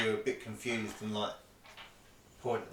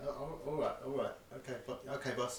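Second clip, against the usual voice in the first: softer, hesitant compliance; meek underling; 6 dB quieter, faster than usual. Acted. Game master as guards obeying the boss, meek. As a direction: back down as an obedient lackey.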